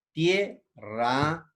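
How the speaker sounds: "Tierra" in two spaced beats; tie, pause, rra for "Tierra"; syllable by syllable. Shown as a demonstration. Teacher reading out the example, "Tierra" split by syllables. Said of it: "Aquí está el ejemplo".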